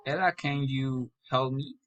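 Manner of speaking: "help me" lifts at the end; rising intonation. Shown as a demonstration. Learner practising direct address, rising on "help me". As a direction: raise the tune on "help me". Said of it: "raising intonation".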